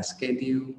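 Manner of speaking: "schedule" as "ske-diu"; common mispronunciation. Shown as a demonstration. Teacher repeating learners' mistake, "ske-diu". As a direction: end "schedule" on a Vietnamese-style "điu". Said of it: "Rất là nhiều bạn đọc là".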